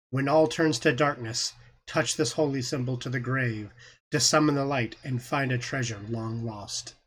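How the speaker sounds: hushed voice from beyond the grave; ghostly whisper. Acted. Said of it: "a female ghostly whispering voice".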